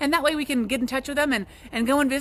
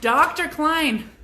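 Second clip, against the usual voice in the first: dramatic announcement; 4 semitones higher, 4 dB louder, much slower than usual. Pretend.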